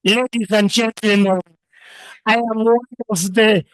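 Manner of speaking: grand, slow self-important showing off; mock grand self-introduction, hammed up; pompous boasting. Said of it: "ningekuwa najiintroduce".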